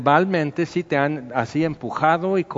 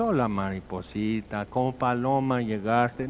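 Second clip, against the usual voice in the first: tender Jesus voice; 3 semitones lower, 5 dB quieter than usual. Acted. Jesus greets the butterfly tenderly.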